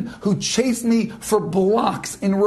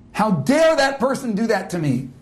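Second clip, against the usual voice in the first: mock indignant ego. Shown as a demonstration. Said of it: "You hear that?".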